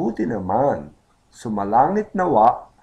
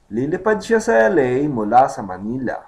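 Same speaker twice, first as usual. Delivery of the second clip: mula flows into sa Manila, emphasis on Manila; stress on Manila; 3 dB louder, faster than usual. Shown as a demonstration. Teacher repeats the sentence, stress on Manila. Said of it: "the emphasis would be Manila".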